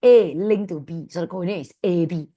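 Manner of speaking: slow, emphatic start, then steadier; deliberately slow. Real, not acted. Maths teacher carefully explaining coordinates to the class, deliberately slow. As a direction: say it slowly so they can follow. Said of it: "I'm gonna say it slow".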